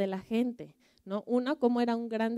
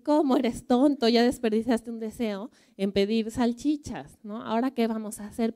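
higher, louder exasperated scolding; scolding wife; 3 semitones higher, 4 dB louder than usual. Acted. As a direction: tell off a foolish husband. Esposa regaña al marido. (esposa regañona, más aguda y fuerte)

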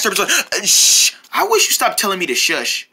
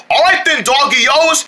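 excited shout; 3 semitones higher than usual. Shown as a demonstration. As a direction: shout it out with hype.

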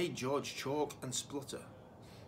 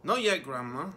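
calling back; 6 dB louder than usual. Acted. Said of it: "George called back".

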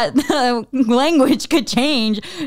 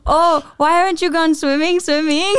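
higher-pitched, playful uncle voice; Tito impression; 6 semitones higher than usual. Uncle asking a kid about swimming, playful Tito voice. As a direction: imitate a tito doubling the last word. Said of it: "Tito boy that just repeats every verb".

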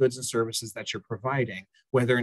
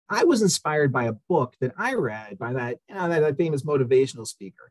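lightly voiced naive client; a hint of a clueless client; bad acting. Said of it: "forgive my acting skills".

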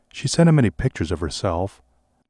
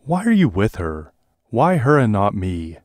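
raised voice; 2 semitones higher, 3 dB louder than usual. Acted. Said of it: "voice was raised even louder".

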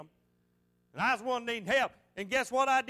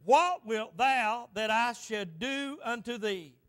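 voicing Jesus; slower than usual. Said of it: "Jesus answered and said".

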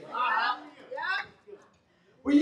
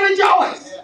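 ringing shout; 5 semitones higher, 5 dB louder than usual. Acted. Repeated with rising force.

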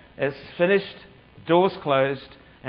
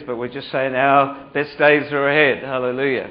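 preaching loud; 7 dB louder than usual. Real, not acted. Preacher's rising declaration.

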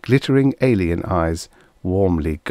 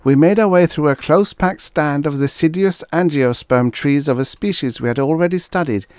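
put-on higher, louder tense young officer; nervous young lieutenant; 8 semitones higher, 3 dB louder than usual. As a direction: recite the testimony under strain.

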